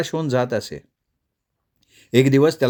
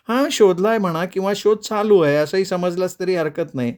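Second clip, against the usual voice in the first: Radha's voice, pitched up and playful; playful wife-to-be, high; teasing high girl's voice; 6 semitones higher than usual. Acted. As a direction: tease him in a bright girlish tone. Radha answering coyly.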